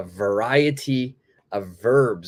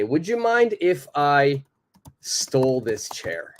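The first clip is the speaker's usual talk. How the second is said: casual, playful, still polite; a light playful ask, higher at the start; 4 semitones higher than usual. Shown as a demonstration. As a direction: tease a little while you ask. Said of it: "I'll speak a little bit more casually, a little bit more playfully".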